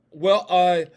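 attempted British accent, imitating a young actor. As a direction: put on a slow British lilt. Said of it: "You know, he's British".

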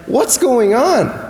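high, drawn-out excited question; excited wondering. Acted. Disciples fetch the promised king's donkey, excited. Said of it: "You can imagine the excitement".

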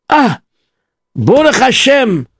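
high, glad announcement; joyful news. Acted. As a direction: break the good news.

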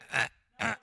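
two mock strains; acted straining grunts. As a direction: grunt as if pushing hard.

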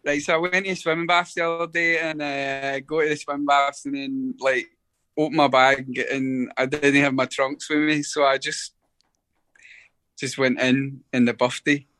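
broad Glaswegian accent, fast; heavy Scottish accent. Shown as a demonstration. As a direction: lay on the thickest Scottish accent. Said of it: "with your heaviest Scottish accent".

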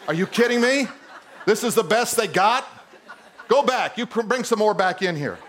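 amused mock outrage through laughs; laughing disbelief. A father rejecting his daughter's boyfriends, laughing.

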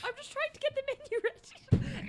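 high-pitched British chef role; British accent. Pretend. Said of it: "you have to have a British accent".

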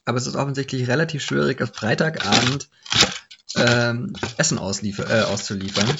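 talking through a mouthful; munching between words; chewing while talking. Real, not acted. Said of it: "das klingt so grausam nebenbei".

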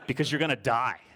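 punchline broken by laughter; laughing through it. Real, not acted. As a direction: laugh out the joke. Joke punchline.

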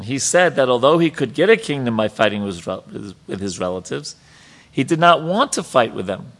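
emphatic, lifted reading voice; reading scripture aloud. Real, not acted. Teacher reads the purport to the class, emphatic read-aloud. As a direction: read it out with firm stress on key words.

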